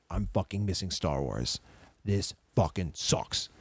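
low-pitched, dejected grumble, slowing at the end; retold bummed. Kid missing Star Wars with his friends, bummed. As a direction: sulk it out, low and heavy. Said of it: "I remember being so bummed".

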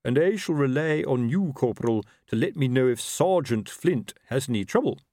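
lightly voiced officer relying on his corporal; officer instructing a corporal. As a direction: confide an order as the superior.

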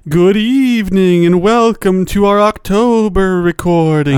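slow spooky host voice; a hint of a haunted house host; low haunting voice. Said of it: "I will be doing the entire episode in a spooky voice".

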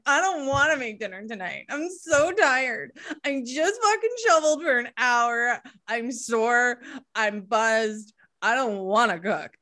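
whiny, sulky pouting. Retold or imitated. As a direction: sulk through it like a tired kid. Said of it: "pouting in my head going".

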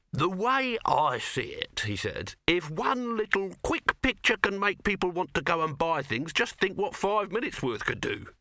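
high, slow huckster voice; wheedling Dibbler. A narrator's reading. Dibbler defends his sneaky ad to his nephew in a high, slow huckster voice. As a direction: sell the idea like a market trader.

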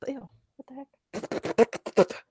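disgusted, choking on a bug; spluttering after swallowing a bug; just swallowed a bug. Real, not acted. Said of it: "A bug!".

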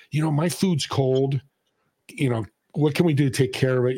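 measured, reasonable customer voice; polite complaint. Acted. Customer raising a problem with the manager, calm and polite. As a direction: raise the problem calmly and unhurriedly. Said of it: "there's a way to do it".

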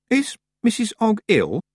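a high question with a hint of concern; concerned young witch. A narrator's reading. Tiffany asking the woman after Missus Ogg, mildly concerned.

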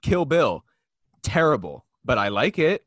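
a moviegoer trashing films he likes; mock movie snob. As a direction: sneer like a know-it-all critic. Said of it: "They're like".

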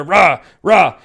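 half-hearted "rah" growls; imitated monster roar. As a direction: toss off two short mock roars. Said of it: "he's standing up there".

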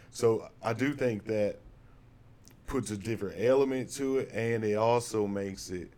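choppy laggy connection; breaking up over a bad call; laggy video call. Real, not acted. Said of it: "I sound really laggy".

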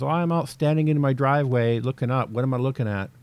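lightly voiced confused ham; clueless caller. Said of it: "I remember one guy calling in and says".

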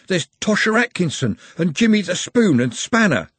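character voice. Acted. Carter voiced listing names.

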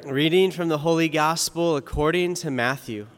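formal liturgical reading voice; Gospel reading. Acted. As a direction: proclaim the Gospel solemnly.

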